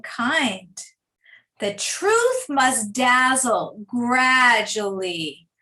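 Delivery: slow, measured poem reading with pauses; unhurried classroom poetry recital; poem read aloud. Shown as a demonstration. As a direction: read the verse slowly, line by line. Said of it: "I'm just gonna read it to you".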